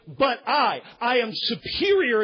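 loud, commanding declaration; proclaiming Jesus. Retold or imitated. Preacher voicing Jesus' claim to authority, loud and commanding. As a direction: thunder it as supreme authority. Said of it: "is what he is saying".

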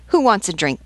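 high, loud vendor's call. Acted. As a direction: call it out to the soldiers over the uproar. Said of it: "and you call out".

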